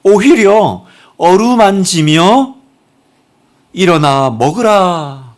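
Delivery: 어루만지며 일어나 먹으라 drawn out very slowly, 오히려 stretched on a rising tune; slow, tender emphasis. Shown as a demonstration. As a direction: linger on each word of 어루만지며 일어나 먹으라. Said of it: "하나님 어떻게 하세요?".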